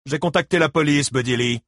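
a lightly voiced cool husband; announced calmly. A narrator's reading. Gérald coolly announces over the speaker, lightly voiced. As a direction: state it coolly. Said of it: "annonça-t-il".

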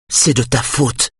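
high-pitched accusation, not shouted; accusing, pitched well up. A narrator's reading. Lydia accuses him during the chase.

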